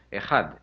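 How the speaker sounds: joined-up Echad, throaty middle ch; Echad with guttural ch. Shown as a demonstration. Coaching the audience to practise, Echad with guttural ch. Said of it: "put it in the middle of that word".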